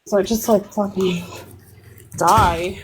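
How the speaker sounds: laughing and winded; out of breath. Real, not acted. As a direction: catch your breath while talking. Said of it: "out of breath".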